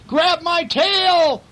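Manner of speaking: high, loud, slow call; monkey calling. Acted. Monkey calling to the clown, high and loud. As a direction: stretch it out calling across to the clown. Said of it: "the monkey called to the clown".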